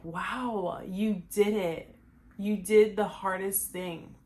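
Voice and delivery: quietly moved, real emotion held in; emotional. Real, not acted. Vlogger imagining her old self's pride, quietly emotional. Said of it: "I was not trying to get emotional there".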